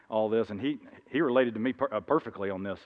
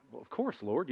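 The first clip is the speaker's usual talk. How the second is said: defensive Peter; 2 semitones higher, 9 dB quieter than usual. Acted. Peter answering more defensively.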